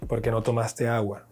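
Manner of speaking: "¿por qué no tomaste agua?" with the voice dropping at the end, no rise; falling question. Shown as a demonstration. Teacher shows a question word question without a rise. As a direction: let "agua" fall like a statement. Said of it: "no se entona pregunta".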